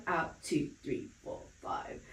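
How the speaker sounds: instructor counts the exhale, voice fading to breath; breathy counting. Shown as a demonstration. Pilates instructor counting breaths, fading to breathy. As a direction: let the count fade out on the breath.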